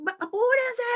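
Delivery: high, loud hurry-up call; mock rushing the kids out the door; hurrying the family. Hurried family morning scene.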